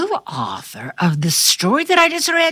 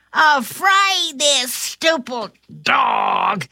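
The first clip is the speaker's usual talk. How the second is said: burglar; slower than usual. Acted. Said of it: "cried the shorter burglar".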